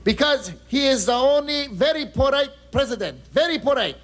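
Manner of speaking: lightly put-on Japanese accented English; a reporter from Tokyo in a light Japanese accent. Tokyo reporter answering the anchor, in a light Japanese accent. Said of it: "Konbanwa ... My name is Glenn".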